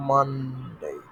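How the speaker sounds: "Monday" said as "mun-day", falling. Shown as a demonstration. Teacher repeats after spelling M U N, "Monday" as "mun-day". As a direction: open "Monday" on a clear "mun". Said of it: "M U N".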